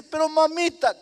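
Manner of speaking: high, loud pleading wail; sobbing plea to mother; pleading cry. Acted. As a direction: beg mother through tears. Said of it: "cayó de rodillas, llorando".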